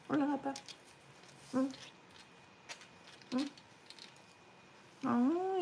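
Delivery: high, sweet cooing voice. Real, not acted. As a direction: coo over the puppy. Coos at the dog.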